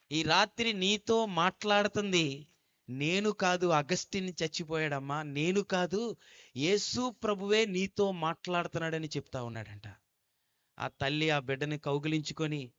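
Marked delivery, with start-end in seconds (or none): 0.1-9.1 fervent declaration. Retold or imitated.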